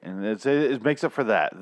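ordinary delivery

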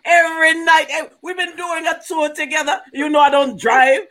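hammed-up tearful yelling; mock crying shout. Father defends his son to the comedians, tearful and yelling.

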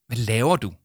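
mildly surprised question; puzzled, caught off guard. Acted. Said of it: "spurgte Arthur overrasket".

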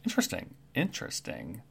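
soft muttering to himself, trailing into a whisper; hushed, curious bird muttering; Kenku mumbling. Acted.

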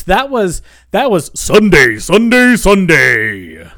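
booming Sunday Sunday Sunday hype; monster truck announcer. Shown as a demonstration. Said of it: "That was not N P R voice".

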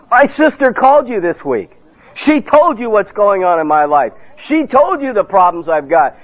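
a touch of an indignant sister confronting the preacher; accusing sister. Retold or imitated. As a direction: retell the sister's angry charge.

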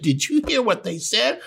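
God mocking. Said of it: "God punches Jesus and said".

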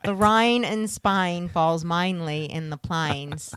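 slow, mock Cockney with "Rhine" and "plines"; a deliberately bad Cockney line; Cockney accent. Co-host tries a movie line in mock Cockney. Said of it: "It's just Cockney".

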